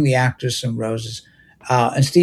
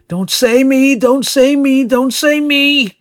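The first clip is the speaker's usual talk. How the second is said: higher, pleading chant, slowing at the end; anxious pleading; 9 semitones higher, slower than usual. Acted. Popcorn dreading the IRS call, high anxious pleading. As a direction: beg under your breath that it isn't you.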